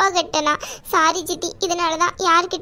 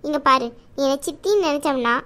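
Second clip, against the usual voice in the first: a slightly lower, motherly aunt who scolds out of love; caring aunt voice; 4 semitones lower than usual. Acted. Aunt scolds niece Saraswathi for hiding debts, lower motherly voice. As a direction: play the protective chithi, chiding but kind.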